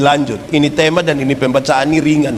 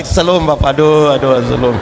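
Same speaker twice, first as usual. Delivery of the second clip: flustered welcome. Retold or imitated. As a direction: gush over the visiting pastor. Flustered couple welcoming pastor.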